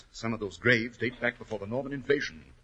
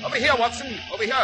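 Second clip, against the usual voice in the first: high, loud call across the dark; shouting over the storm; 11 semitones higher, 4 dB louder, faster than usual. Acted. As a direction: call him over through the rain. Calling out in the storm.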